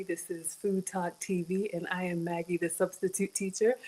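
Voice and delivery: upbeat show-host intro; infomercial host. Shown as a demonstration. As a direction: sell it like an infomercial. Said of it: "it's gonna sound like an infomercial".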